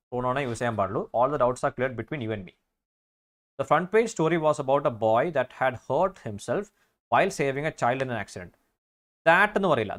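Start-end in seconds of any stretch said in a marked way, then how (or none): 1.2-2.5 slow, careful corrected sentence; slow corrected reading. Shown as a demonstration. Teacher reading the corrected sentence to students, slowly. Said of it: "you and me എന്ന് പറയണം". 3.6-8.5 slow reading aloud. Shown as a demonstration. Teacher reading an exam question to students, slow and deliberate. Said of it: "reads exam sentence slowly".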